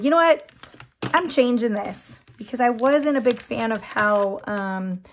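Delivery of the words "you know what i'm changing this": sudden decision. Retold or imitated. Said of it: "and I was like".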